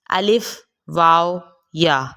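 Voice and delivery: الف، واو، یا stretched long and slow, each letter held; letters of the mouth cavity, slowly drawn out; drawn-out alif waw ya. Shown as a demonstration. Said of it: "حروف ہوائیہ".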